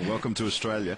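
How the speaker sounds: a so-so attempt at an Australian accent; Aussie accent. American player jokingly greets viewers in a shaky Aussie accent. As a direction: try on an Aussie accent, not quite convincing. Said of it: "Not the best Aussie accent I've ever heard".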